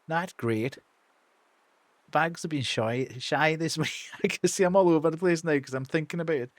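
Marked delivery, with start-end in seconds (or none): 0.1-3.9 put-on character in a tentative Irish accent; amateur Northern Irish voice. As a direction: try a Derry accent, slightly unsure. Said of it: "give him an Irish accent".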